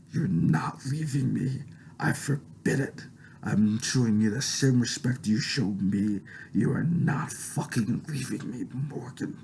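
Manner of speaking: slow, strained put-on demon voice, not deep; demonic voice. Wife forbidding him to leave, slow strained demon voice. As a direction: stretch it out like a possessed wife. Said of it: "Natalie rumbled in a demonically deep voice".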